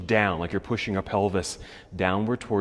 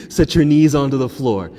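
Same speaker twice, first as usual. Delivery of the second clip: louder cue; 4 semitones higher, 9 dB louder than usual. Real, not acted. Cue right after laughing.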